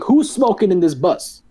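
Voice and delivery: domineering tone. Retold or imitated. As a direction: imitate a bossy bus driver demanding an answer. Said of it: "the way he said it was like, the guy was scared".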